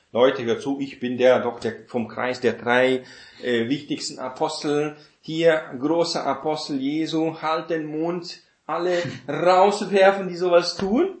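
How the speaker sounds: loud, puffed-up mock authority; boastful apostle. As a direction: throw your weight around, half laughing. Imagined boastful apostle addressing church.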